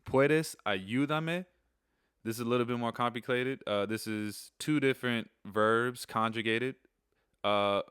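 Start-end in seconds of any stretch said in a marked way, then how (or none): 0.1-1.4 very slow, higher "Puedes ayudarme?" with a rise; Spanish phrase demo. Shown as a demonstration. Teacher slowly models asking for help in Spanish. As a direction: sound out each syllable for learners. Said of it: "know where you're going".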